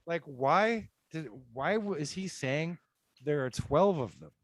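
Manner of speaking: high, rising what in shock; baffled disbelief. Retold or imitated. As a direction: act floored and confused. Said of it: "and I was like".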